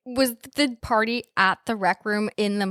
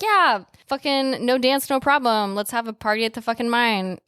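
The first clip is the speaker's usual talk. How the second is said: rowdy excitement; 3 semitones higher than usual. Retold or imitated. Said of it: "they're like".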